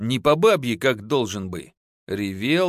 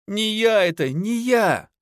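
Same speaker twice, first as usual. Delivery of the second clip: terrified wailing; 7 semitones higher than usual. A narrator's reading. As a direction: beg in terror, voice up high. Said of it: "и причитал".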